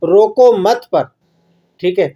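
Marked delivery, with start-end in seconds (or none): 0.0-0.9 "روکو مت" joined, halting on مت; stop on مت. Shown as a demonstration. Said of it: "کہاں پر ٹھہرے؟".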